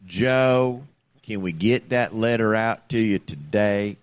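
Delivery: slow, evenly paced scripted sales pitch; robot telemarketer voice. Retold or imitated. Showing the co-host the bot's voice, slow and measured. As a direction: read it like a calm machine reading a script. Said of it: "This is the voice I'm listening to".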